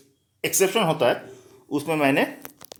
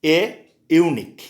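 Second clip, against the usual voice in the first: slow model phrase; 4 dB louder, much slower than usual. Shown as a demonstration. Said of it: "more example दे रहे हैं".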